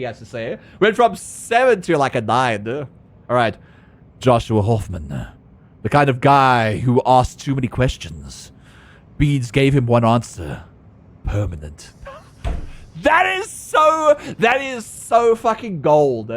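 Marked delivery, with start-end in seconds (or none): 4.2-11.9 noir voice. Acted. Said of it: "reading noir lines". 13.0-16.3 excited. Real, not acted. Delighted exclamation.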